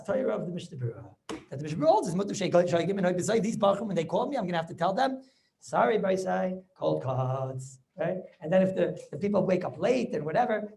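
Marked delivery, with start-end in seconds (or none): 5.6-7.8 slow, stretched-out mock apology; acted, drawn-out sorry; drawn-out ruling. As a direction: break the bad news slowly, word by word. Rabbi voicing his reluctant ruling.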